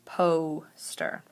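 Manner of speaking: poster drawn out as two syllables, long O first; split by syllable. Shown as a demonstration. Teacher showing where the long O is, poster split by syllable. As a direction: say poster slowly in two parts, PO then ster. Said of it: "where I hear the long O sound".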